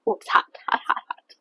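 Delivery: breathy, talking round a hot bite; huffing through a burning mouthful; mouth full of hot food. Real, not acted. Just bit into hot chicken.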